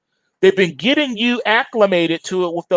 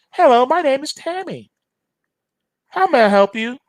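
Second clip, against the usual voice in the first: lightly voiced chirpy phone bot, higher; AI service voice; 8 semitones higher than usual. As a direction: play a cheerful robot agent answering. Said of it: "talking to the artificial intelligence".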